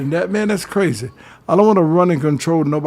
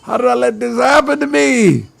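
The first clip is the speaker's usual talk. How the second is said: frustrated self-reproach; 7 semitones higher than usual. Retold or imitated. Man caught in the paper, berating himself in a higher voice. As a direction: groan it out at yourself in dismay. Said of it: "put it in your pocket and say".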